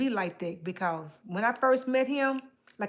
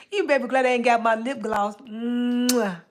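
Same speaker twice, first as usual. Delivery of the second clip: flirty tease; 5 dB louder than usual. Pretend.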